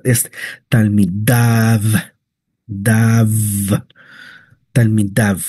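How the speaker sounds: talmidav with the yud almost silent; teacher showing the near-silent yud; barely sounded yud. Shown as a demonstration. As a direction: slip past the yud in talmidav. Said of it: "es casi impronunciable".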